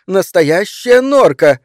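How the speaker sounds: high, loud, drawn-out delight; excited cry. A narrator's reading. Wife recognises real mink, crying out high and delighted. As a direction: cry it out slowly, thrilled. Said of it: "закричала она".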